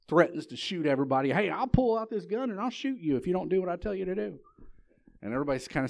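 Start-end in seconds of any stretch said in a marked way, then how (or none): 1.3-4.4 high, loud acted threat; bullying yell. Bully threatens everybody at the card table, yelling. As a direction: yell it like a bully scaring the room. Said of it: "he's yelling at everybody".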